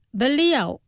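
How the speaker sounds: slow, careful model pronunciation; pronunciación despacio. Shown as a demonstration. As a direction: say it slowly for learners to repeat. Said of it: "Los pronunciaré despacio". (pronunciado despacio, para repetir)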